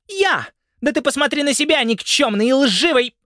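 очень высоко, громко и быстро; захлёбывается злостью; визгливый крик. A narrator's reading. Жена кричит в ссоре. (жена в ссоре визгливо кричит на мужа)

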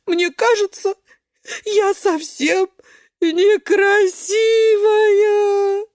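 high, loud, very slow wailed word; drawn-out crying wail; wailing sob. Acted. Beet breaks down crying. (свёкла рыдает, растягивая слово)

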